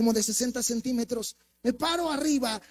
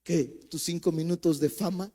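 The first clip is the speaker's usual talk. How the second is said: mocking taunt; 5 semitones lower than usual. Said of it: "escuchó la voz que me dije".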